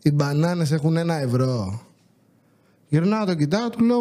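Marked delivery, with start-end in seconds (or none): 0.0-1.8 a touch of condescension, lower; smug customer quoting a price; smug little tone. Retold or imitated. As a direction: mimic his snooty customer tone. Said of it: "τώρα με ένα υφάκι".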